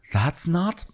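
generic gay guest. Retold or imitated. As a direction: imitate a guest's slow, campy verdict. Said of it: "generic gay responses".

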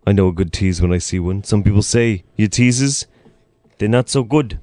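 measured, slowed-down presidential impression; lightly voiced boastful politician, drawing out the words; Donald Trump. Co-host riffing on good teases, as an imitated boastful president. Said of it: "we're gonna have Donald Trump impressions".

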